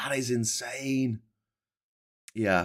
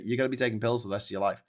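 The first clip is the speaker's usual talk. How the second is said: fast blunt; faster than usual. Real, not acted. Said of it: "I'm gonna break it to you".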